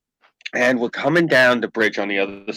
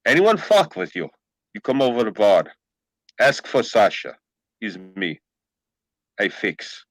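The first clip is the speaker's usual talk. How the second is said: put-on Russian accent; 3 semitones lower than usual. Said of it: "he goes like this".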